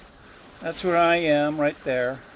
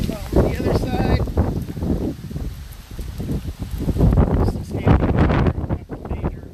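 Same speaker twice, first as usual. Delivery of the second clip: raised voice over the storm; shouting over wind; 9 semitones higher, 7 dB louder than usual. Real, not acted. Outdoors in hurricane wind.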